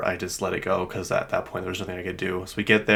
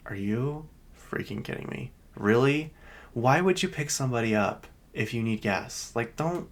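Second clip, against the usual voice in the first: higher-pitched, held-in annoyance; retold exasperation; 3 semitones higher than usual. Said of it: "I was so mad".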